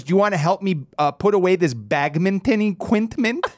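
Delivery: oblivious friendly coach; Coach Steve impression. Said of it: "And then he goes".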